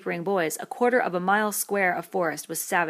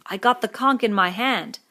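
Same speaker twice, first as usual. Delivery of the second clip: protesting; 5 semitones higher, 9 dB louder than usual. A narrator's reading. Piggy protesting again.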